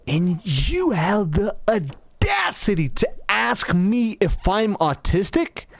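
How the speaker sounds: slow, incredulous challenge; mock indignation. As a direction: draw out the affront word by word. Retold indignant retort to coworker.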